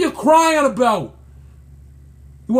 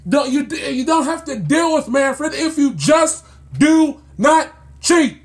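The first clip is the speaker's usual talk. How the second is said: usual speaking voice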